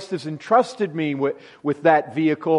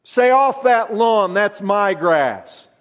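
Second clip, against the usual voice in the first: mock grumpy neighbour, louder and higher on "Stay off that lawn"; lightly hammed-up grumpy homeowner; possessive owner; 3 semitones higher, 4 dB louder, slower than usual. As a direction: shoo them off your lawn, half-playful. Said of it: "We tend to think".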